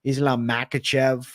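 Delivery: Makhachev as MACK-uh-chev; short flat a at the start of Makhachev; alternative pronunciation. Shown as a demonstration. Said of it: "multiple ways to pronounce".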